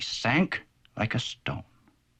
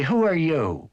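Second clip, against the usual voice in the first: cross; 4 semitones higher, slower than usual. Acted. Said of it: "Quack said rather crossly".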